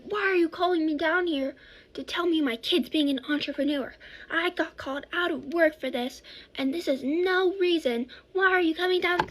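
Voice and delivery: mom telling off the officials, rising in outrage; mom going off. Retold or imitated. Mom scolding the principal for calling her in, indignant and building. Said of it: "my mom goes off on them".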